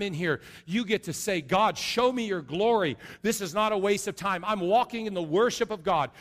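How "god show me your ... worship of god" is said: fervent prayer. Pretend. Congregant praying during worship.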